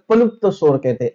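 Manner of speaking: पलुप्त read with p before lupta; "पलुप्त" pronounced pa-lupta, as read in Hindi. Shown as a demonstration. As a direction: say पलुप्त, opening on a p. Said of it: "वाचन हिंदीमध्ये कशी करतात".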